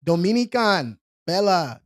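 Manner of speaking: Dominican with an accented, open last vowel; slow accented take on Dominican Bella; put-on accent. Real, not acted. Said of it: "put the accent on there".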